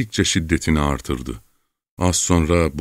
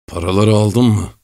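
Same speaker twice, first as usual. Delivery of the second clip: higher, contemptuous demand; spat-out question; 4 semitones higher, 4 dB louder than usual. A narrator's reading. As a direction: spit the question out. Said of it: "tükürür gibi".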